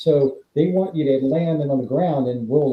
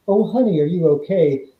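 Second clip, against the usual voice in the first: mock concern; 4 semitones higher than usual. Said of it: "The transition from".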